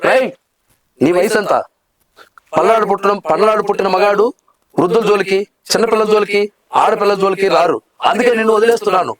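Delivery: lightly acted, cool hero sparing a young man; calm, proud hero, letting him go; hero dialogue. Hero tells a young opponent he is being spared, lightly acted. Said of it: "ఇంకో dialogue".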